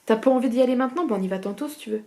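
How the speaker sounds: put-on broad Norman country accent. Back home in Normandy, slipping into Norman accent. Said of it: "je me retrouve à faire des pans".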